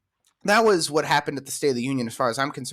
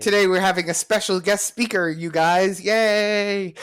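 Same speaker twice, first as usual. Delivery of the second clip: sing-song, higher preschool teacher voice; 6 semitones higher, 3 dB louder than usual. Retold or imitated. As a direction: gush like a kindergarten teacher. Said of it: "She sounds like a, a preschool teacher".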